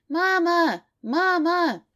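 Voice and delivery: put-on high, loud, insistent little girl's cry; child calling out. A narrator's reading. Daughter banging on the bathroom door, calling her mother. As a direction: keep calling mama through the door.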